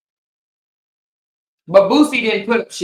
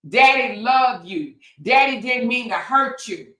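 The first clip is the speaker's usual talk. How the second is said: mock pleading dad; 3 semitones higher than usual. Mocking a rapper apologizing to his daughter, pleading dad. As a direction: plead like a sorry daddy. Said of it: "is what he said".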